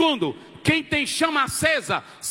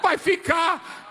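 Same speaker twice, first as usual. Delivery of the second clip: impassioned retelling; 6 semitones higher than usual. Retold or imitated. Preacher cries out retold farewell.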